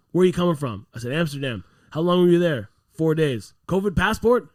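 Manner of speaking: mock cop questioning. Retold police questioning.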